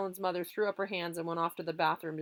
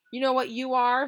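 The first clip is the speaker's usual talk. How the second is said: confrontational; 6 semitones higher, 8 dB louder than usual. Acted. Boys squaring off.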